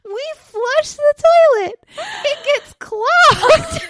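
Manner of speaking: put-on high, loud little kid; excited child bragging, slowing down at the end; proud toddler voice. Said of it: "He goes".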